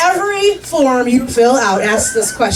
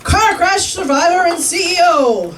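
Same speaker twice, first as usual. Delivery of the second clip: pitched-up mock status announcement; mock self-introduction; 4 semitones higher than usual. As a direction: introduce yourself proudly by an absurd title. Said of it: "Is that your status now?".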